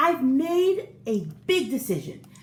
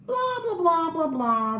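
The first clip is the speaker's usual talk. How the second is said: mocking blah; 4 semitones higher than usual. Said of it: "they replied".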